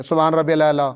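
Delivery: "سبحان ربی الاعلی" low and casual, Arabic throat sounds dropped; local-language pronunciation. Retold or imitated. Preacher mimics worshippers' dhikr, local pronunciation. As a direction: recite "سبحان ربی الاعلی" as if it were everyday Urdu. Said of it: "اپنی مقامی زبان بول رہے ہیں".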